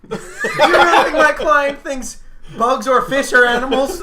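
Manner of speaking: loud, slow, mock courtroom grilling; cross-examine like a hammy attorney; courtroom lawyer. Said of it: "I'm just, like, sitting on trial".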